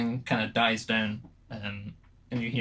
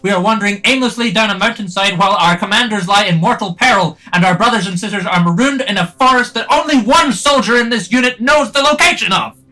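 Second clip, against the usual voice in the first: very loud, much higher raging yell; furious shout; 11 semitones higher, 17 dB louder than usual. Acted. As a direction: scream the accusation at him. Samwern shouting in rage.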